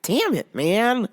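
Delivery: voiceless, whispered cursing; lost voice. Real, not acted. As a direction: voice gone, only air comes out. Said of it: "and I lost my voice".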